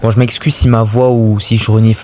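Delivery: stuffy nose, sniffling a bit; talking through a head cold; has a cold. Real, not acted. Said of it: "je suis un peu enrhumé".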